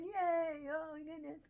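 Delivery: high, hammed-up little cheer; gleeful cheer. Retells own joy.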